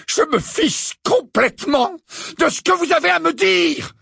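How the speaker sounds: furious roar, high and loud; building to an enraged yell. Acted. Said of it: "Rugit Harry".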